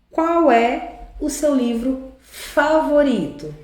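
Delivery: slow, spaced-out reading of the question; leitura pausada do exemplo. Shown as a demonstration. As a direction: draw out QUAL and FAVORITO. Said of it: "olha o qual aqui". (leitura lenta e pausada, palavra por palavra)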